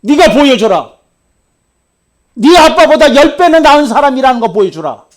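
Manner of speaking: loud, high demand to prove it; forceful preacher's challenge; challenging shout. Retold or imitated. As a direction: dare him to prove himself. Pastor retells his challenge.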